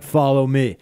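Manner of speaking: a hint of Japanese accent, beckoning. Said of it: "I almost got a little racist with the accent".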